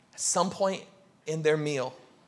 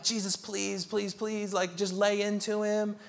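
soft, begging please please please; pleading crowd; 4 semitones higher, 6 dB quieter than usual. Retold or imitated. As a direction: quietly beg him to go after the sinner.

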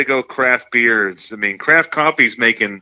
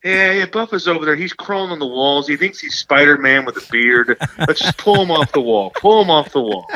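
lightly acted, higher-pitched bystanders; mock alarm at a friend's antics; alarmed onlookers; 4 semitones higher than usual. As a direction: play a bystander calling it out. Acted onlookers reacting to Buffa.

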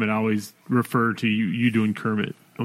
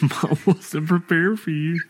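slow, higher mocking echo; mock repeat; 6 semitones higher, slower than usual. Teasing the sister by echoing her line slowly. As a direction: drag it out teasingly.

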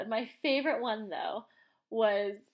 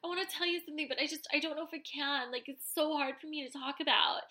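higher, softer, fast nervous rush; hesitant woman; 5 semitones higher, 4 dB quieter, faster than usual. Retold or imitated. Mocking her struggling to confess, fast soft nervous voice. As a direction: gush it out nervously. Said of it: "she's like".

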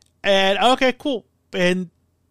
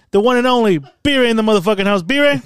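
loud, raised hype-man intro; hyped-up introduction; 2 semitones higher, 5 dB louder than usual. Real, not acted. Host introduces his co-host to listeners, hyped up. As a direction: announce your co-host like he's entering the ring.

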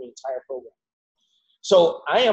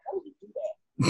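stunned disbelief; 8 dB quieter than usual. Retold or imitated. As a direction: voice leaps way up in awe, high and far off. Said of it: "It was like".

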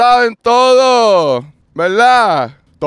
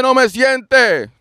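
usual speaking voice

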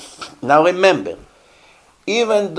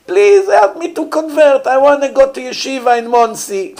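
much higher imitated begging voice; mock pleading convert; 9 semitones higher, 4 dB louder than usual. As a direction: play the murderer asking to convert, pitch raised high. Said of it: "Imagine now he comes and said".

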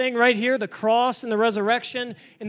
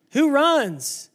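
louder repeat; 3 semitones higher, 4 dB louder than usual. Shown as a demonstration. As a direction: punch the repeat up, rousing. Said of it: "and who runs?".

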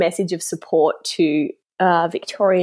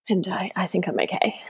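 whispering; 6 dB quieter, faster than usual. Real, not acted. Nervous about pronouncing names.

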